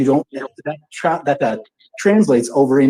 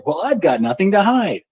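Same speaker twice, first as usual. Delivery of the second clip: mock stubborn quote; 7 semitones higher than usual. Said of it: "dig their heels in and say".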